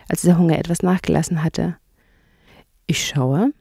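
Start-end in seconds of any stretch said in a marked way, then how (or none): 2.9-3.5 hushed whisper. Acted. Mole answers quietly.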